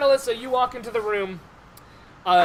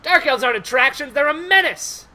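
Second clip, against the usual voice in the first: a touch of heated objection, rising higher; lightly voiced indignant dwarf; 4 semitones higher, 4 dB louder than usual. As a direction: shoot the idea down in character. Dwarf angrily rejects the suggestion.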